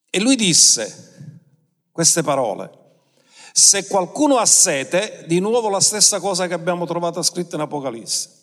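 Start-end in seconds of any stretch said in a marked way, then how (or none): 3.5-5.2 mild proclamation, slow and emphatic; esclamazione. Retold or imitated. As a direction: proclaim it slowly to a crowd, without shouting. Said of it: "si alzò in piedi ed esclamò". (esclamazione solenne e lenta)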